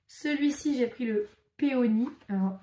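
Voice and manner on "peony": English name in a French accent; untrained English with French sounds. Real, not acted. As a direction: pronounce the English word as a French speaker would. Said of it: "faites pas attention à mon accent anglais".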